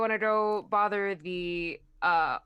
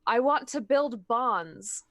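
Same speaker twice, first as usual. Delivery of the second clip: slow, deliberate imitation of a dignitary; Maharaja; slower than usual. Small adventurer mimicking the Maharaja to the ogre, slow put-on voice. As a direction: lightly mimic a ruler, spacing out the words. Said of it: "in, uh, the Maharaja's voice go".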